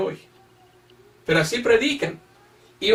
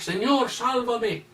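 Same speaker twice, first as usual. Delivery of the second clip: mock plea; 4 semitones higher, 5 dB quieter, slower than usual. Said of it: "no somos salvos por gritar".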